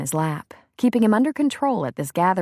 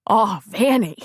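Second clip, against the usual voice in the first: emotional breath; 3 semitones higher, 4 dB louder than usual. A narrator's reading. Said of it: "he said in an emotional breath".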